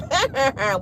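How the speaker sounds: short put-on chuckle; Carlos's stupid laugh. Host imitating Carlos brushing off questions, mock chuckle. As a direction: fake a brief dismissive laugh.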